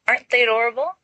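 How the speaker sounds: high, bright delighted coo; happily. Acted. Lily zapping pumpkins into rabbits, happy high coo. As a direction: gush over the bunnies. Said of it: "Lily says happily".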